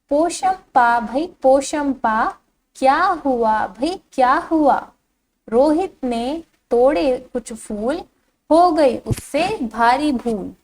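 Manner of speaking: put-on slow, lilting children's poem reading; poem recitation. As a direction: read the verse out slowly for young pupils. Reads poem aloud to pupils. (बच्चों के लिए लय में धीमा कविता पाठ)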